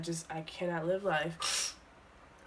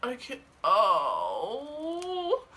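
pained whimper; 4 semitones higher, much slower than usual. Real, not acted. Peeling painful face mask.

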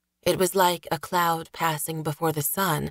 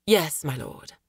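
meek servant voice. Acted. Servant answers his lord.

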